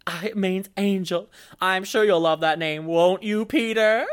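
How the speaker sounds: high, sugary doting aunt voice; squealing baby talk aunt. Pretend. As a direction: coo the new name at the child. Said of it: "and she's like".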